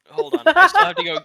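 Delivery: shrill-pitched loud panic; high panicked yell. Acted. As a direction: yelp it out in a panic. Panicked reply to character.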